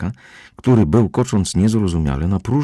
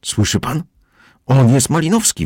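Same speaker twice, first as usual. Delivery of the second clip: high loud yell; 8 semitones higher, 4 dB louder than usual. A narrator's reading. Captain yelling at the narrator, high and loud. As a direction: shout him down. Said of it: "wrzeszczał Petersen".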